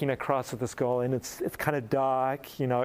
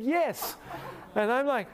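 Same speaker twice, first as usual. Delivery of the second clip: stunned reply; 11 semitones higher, much slower than usual. Retold or imitated. Stunned reply, laughing story.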